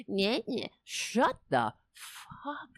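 slowed, high, warbling mic voice; high, drawn-out robotic mic garble; imitating glitchy mic. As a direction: mimic a broken microphone cutting out. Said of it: "the mic is like".

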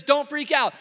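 angel raising his voice over screaming; loud, high, comic order to calm down; loud exasperated command. Acted. Angel to screaming shepherds, loud urging.

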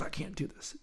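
put-on high, soft little-kid whine; retold child's tiny high-pitched complaint; imitated seven-year-old. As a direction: protest in a small, high child voice. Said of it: "She's seven".

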